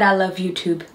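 "YouTube" ending on a clear B; quoted mispronunciation. Retold or imitated. Partner quotes back the slurred reply, B-ended "YouTube". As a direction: repeat the slip, closing "YouTube" on B. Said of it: "You said".

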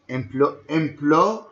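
"emplo-" cut short before the last sound; broken-off syllable demo. Shown as a demonstration. Teacher to students, building the word up piece by piece, cut off. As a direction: stop mid-word on "emplo-". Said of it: "This is a third syllable".

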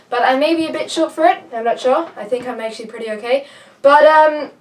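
breathless, panting between words; out of breath. Real, not acted. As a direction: talk while still winded. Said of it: "I'm out of breath".

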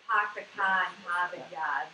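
dropped R's, Pahk the cah in Hahvahd Yahd; Boston accent. Shown as a demonstration. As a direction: drop every R the Boston way. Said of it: "imitate a Boston accent".

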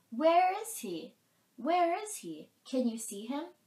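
high, loud anxious questions; frightened doe. A narrator's reading. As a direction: ask urgently as a startled doe. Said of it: "The frightened doe stomped her hoof and snorted".

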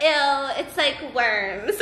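put-on drawn-out, try-hard teen-girl ew; copying cool girls. Little sister trying to be cool, imitated teen drawl. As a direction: imitate the older girls, stretching the last word. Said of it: "I'm trying to talk like them and be cool like them".

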